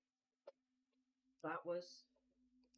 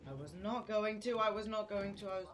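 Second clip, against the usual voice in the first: panicked high yelling; frantic, terrified shouting while fleeing; being chased; 5 semitones higher, 6 dB louder than usual. Real, not acted. Chased by monster in game.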